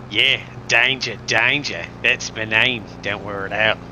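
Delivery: a hint of an Australian accent, slow; lightly voiced Australian bloke introducing himself; Australian character. Streamer trying his Australian character, light Australian drawl. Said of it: "Got a character. His name's Danger Danger".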